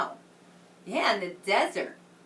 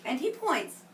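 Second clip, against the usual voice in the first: put-on reading to children. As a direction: read it like a picture book to a class. Reads story to children.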